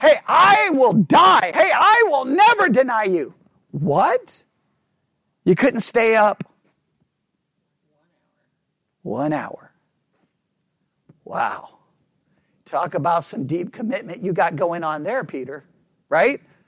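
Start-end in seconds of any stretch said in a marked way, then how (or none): 3.7-15.6 very deep, low, mocking, sarcastic tone. Talking about Peter's claims of loyalty, really sarcastic. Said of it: "it's really sarcastic".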